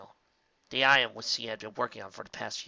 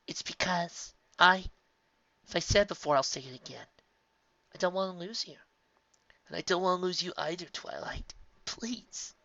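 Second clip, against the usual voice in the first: tearful pleading, breaking to a whisper; 6 semitones higher than usual. A narrator's reading. Spike begging Twilight, voice fading to a whisper. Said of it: "Spike pleaded".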